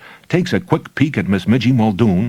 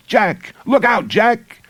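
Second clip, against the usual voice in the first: high, urgent cry of warning; 11 semitones higher, slower than usual. A narrator's reading. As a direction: call out to Jack in alarm. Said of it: "a doll's voice cries".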